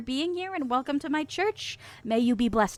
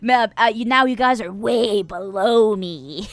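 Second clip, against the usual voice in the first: mock sermon; 2 semitones lower, 5 dB louder, slower than usual. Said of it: "speaking to you sermon style".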